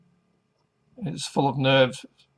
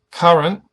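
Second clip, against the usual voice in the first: Current with CUR stressed; stress on first syllable; 3 semitones higher, 6 dB louder than usual. Shown as a demonstration. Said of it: "The first syllable is emphasized".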